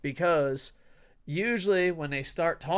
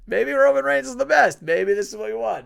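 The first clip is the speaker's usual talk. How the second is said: sarcastic; 6 semitones higher, 8 dB louder than usual. Acted. Mock sarcastic suggestion.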